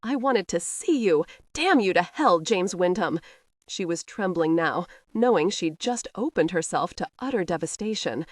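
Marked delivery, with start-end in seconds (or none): 0.0-3.2 louder, furious outburst at him; shriek. Acted. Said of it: "shrieked to him".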